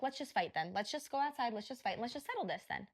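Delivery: even, measured dare at everyday volume; retold calm challenge. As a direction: propose the fight very calmly, without raising the voice. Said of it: "I'm saying this very calmly".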